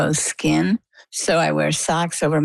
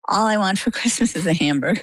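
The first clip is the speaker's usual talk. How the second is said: laughing; 4 semitones higher than usual. Real, not acted. Guest jokes about her Christmas wish, laughing. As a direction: giggle through the line, pitch lifted.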